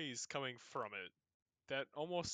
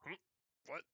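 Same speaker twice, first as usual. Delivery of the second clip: stirring skeleton; 6 dB quieter, faster than usual. Acted. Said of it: "makes, like, a".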